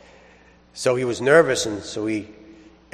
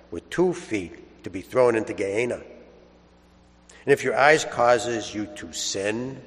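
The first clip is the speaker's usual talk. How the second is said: Gospel proclamation. Acted. Priest reads the Gospel aloud to the congregation, solemn and measured.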